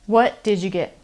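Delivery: "did you" blended into "didja". Shown as a demonstration. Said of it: "maybe you heard did ya".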